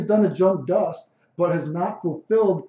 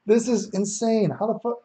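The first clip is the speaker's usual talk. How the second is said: quoting a friend's disbelief; 5 semitones higher than usual. Retold or imitated. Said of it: "my T-Free's like".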